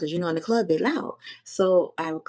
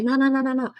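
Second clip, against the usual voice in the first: emphatic refusal; 7 semitones higher, 4 dB louder, faster than usual. Retold or imitated. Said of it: "I'm like".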